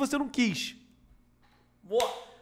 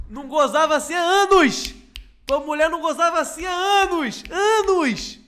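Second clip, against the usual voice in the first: excited shout; 5 semitones higher, 4 dB louder than usual. Acted. Escalating mock bit.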